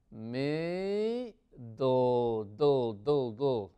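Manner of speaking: "Middle" broken up, long first syllable, then "do"; stretched "Middle", ending sounded as "do"; syllable-by-syllable pronunciation. Shown as a demonstration. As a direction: drill "Middle" as "mi... do", repeating the ending. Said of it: "Vamos a pronunciar esto bien".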